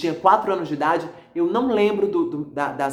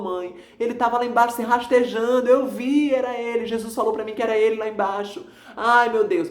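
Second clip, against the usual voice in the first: higher, pleading voice of grief; a touch of a sob in a raised voice; retold tearful plea; 5 semitones higher than usual. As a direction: relive crying over grandpa to mom on the phone. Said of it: "chorando do outro lado do telefone".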